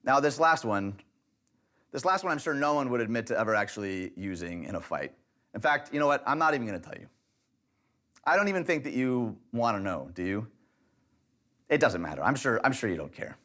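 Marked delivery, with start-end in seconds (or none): 1.9-13.4 passive-aggressive. Shown as a demonstration. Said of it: "It's being passive-aggressive".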